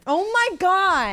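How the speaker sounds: loud, high, slow "oh my God"; stunned. Real, not acted. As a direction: stretch it out in disbelief. Hears it is a man.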